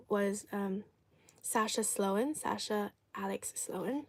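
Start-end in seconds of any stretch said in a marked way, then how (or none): 2.3-4.0 whispered name correction. Real, not acted. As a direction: drop to a soft whisper.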